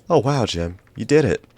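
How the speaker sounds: high, loud burst of amazement; amazed cheer. Acted. Anya cheering Jim for fixing it, high and loud. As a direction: gasp it out, thrilled he pulled it off.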